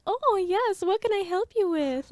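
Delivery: high, breathy-toned foreign flirt; sexy accented helper voice. Retold or imitated. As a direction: purr it like a sultry helper. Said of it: "womanly sexy voice".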